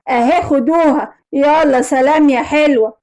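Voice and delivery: slow, lightly voiced crook; kidnapper. Kidnapper to mother at the handover, mildly menacing. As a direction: taunt her as you ask for payment. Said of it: "ولقيت راجل شكله غريب قوي".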